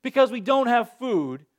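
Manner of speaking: slow, hammed-up whining; mock complaining. Pastor mimicking the Israelites grumbling, mock whine. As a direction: moan it like a grumbling crowd. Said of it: "they grumble and they complain and they cry out".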